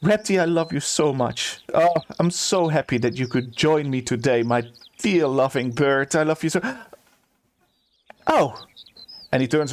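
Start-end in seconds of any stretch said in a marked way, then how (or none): 0.0-6.6 gushing a little higher to a beloved pet; fond, slightly hammed-up pet talk; doting bird owner. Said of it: "what he's saying is this". 8.3-8.6 higher startled "oh"; sudden surprised exclamation. Acted. Steward startled by the visitor.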